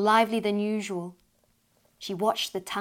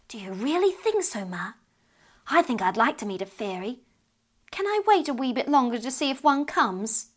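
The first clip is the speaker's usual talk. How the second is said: put-on higher, pleading child's voice; lightly voiced eager child; eager little girl; 4 semitones higher than usual. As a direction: beg to stay up a wee bit longer.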